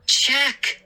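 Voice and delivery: high, urgent plea; begging. Acted. Boy begging father to look outside, pleading. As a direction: implore with one word. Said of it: "I begged".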